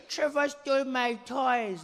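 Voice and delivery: high, slow tattling whine; whiny child. Retold or imitated. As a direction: tattle like a sulking kid. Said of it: "Be like".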